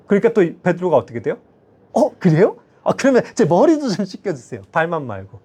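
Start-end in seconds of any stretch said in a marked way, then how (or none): 1.9-5.4 eager turnabout. Retold or imitated. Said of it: "또 이렇게 나와요".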